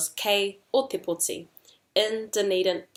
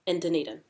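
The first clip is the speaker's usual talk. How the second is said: DUNEDIN falling as a plain statement; making a statement; 3 semitones lower, 3 dB quieter, much faster than usual. Shown as a demonstration. Teacher models a statement for learners, DUNEDIN falling. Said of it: "That's making a statement".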